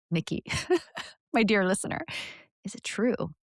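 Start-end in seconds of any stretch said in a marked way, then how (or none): 0.5-1.0 light, breathy laugh; brief amused puff; small chuckle. Real, not acted. Amused after naming Nikki.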